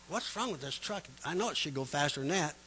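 soft puzzled mutter under the breath; a hushed, puzzled aside to yourself; muttering to himself. Retold or imitated. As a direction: mutter it quietly, as if alone in the cab.

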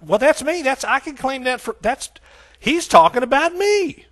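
high, tumbling, acted discovery; excited recognition. Reader finds himself in the Bible, acted excitement.

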